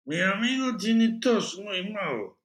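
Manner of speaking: put-on earnest excuse in American-accented Spanish; Spanish with an American accent, starting high. A narrator's reading. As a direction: explain haltingly, an American speaking Spanish. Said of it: "in American accented Spanish".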